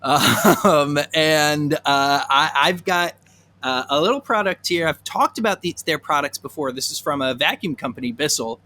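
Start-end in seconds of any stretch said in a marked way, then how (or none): 0.0-6.7 DJ voice. Pretend. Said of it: "my daytime D J voice".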